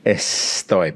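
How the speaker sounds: "estoy" slow, the S breathed as an H; "estoy" with the S softened to a puff of air; aspirated S. Shown as a demonstration. Teacher shows the aspirated S in "estoy". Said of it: "S's have this breath, this aspiration".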